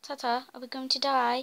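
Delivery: speaking British. Looking for another chest with a companion, in a British accent. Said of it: "why am I speaking British right now?".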